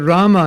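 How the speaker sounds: Rama with a stretched first A and a short final A; long first A. Shown as a demonstration. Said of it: "it's a long A".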